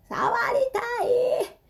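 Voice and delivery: put-on high-pitched toddler shouting to borrow the toy; little sister's high cry of "貸して" at her brother. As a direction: yell like a three-year-old who wants it now. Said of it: "ものすごいアピール".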